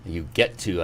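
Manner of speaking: "get" leaned on, not "have"; "get" stressed as a gift. Retold or imitated. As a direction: hit "get" to stress the privilege. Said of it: "I love how you said that".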